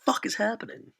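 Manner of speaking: sudden high-pitched what the hell; shocked reaction. Retold or imitated. Friend passes out, narrator squeaks in shock. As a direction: blurt it out high in disbelief. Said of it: "And I'm like".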